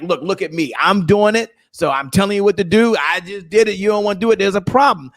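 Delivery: mild rock star closer swagger; rock star seller. Retold or imitated. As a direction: lightly play the cocky motivational guru. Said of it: "what I call the rock star signature selling style".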